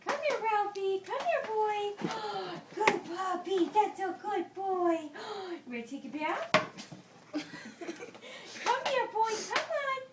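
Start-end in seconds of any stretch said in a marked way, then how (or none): 0.1-5.0 talking to a dog. Real, not acted. Coaxing the dog to come. 8.6-10.0 talking to a dog. Real, not acted. Coaxing the dog, laughing.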